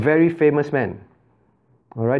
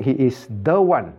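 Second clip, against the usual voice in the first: stressed "the", marking him as the only one; emphasis on THE; 3 semitones lower than usual. Shown as a demonstration. Teacher explaining uniqueness to the class, emphatic THE. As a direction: lean firmly on "the". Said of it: "that is the emphasis".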